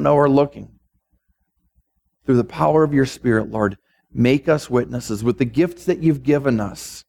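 measured pastoral prayer with long pauses. Real, not acted. Preacher asking God to use the congregation in his harvest, prayerful. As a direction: pray aloud, phrase by phrase, unhurried at the ends.

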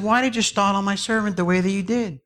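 high-pitched, affronted question; acted annoyed master; indignant master. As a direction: take Death to task. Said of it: "kind of mad".

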